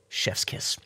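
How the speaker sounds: unvoiced, breathy "chef's kiss"; whispered chef's kiss. Praising the glowy gradients with a whispered chef's kiss. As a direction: whisper it like savoring a dish.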